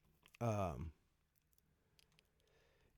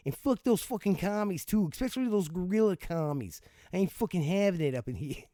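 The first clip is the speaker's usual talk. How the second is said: louder hammed-up tirade against commies; mock angry rant; 6 semitones higher, 5 dB louder than usual. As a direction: blow up in fake outrage. Ranting at the communist law.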